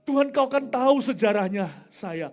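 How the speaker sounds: urgent confession. Retold or imitated. Preacher retells confessing his weakness to God, urgent confession. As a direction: plead your weakness loudly.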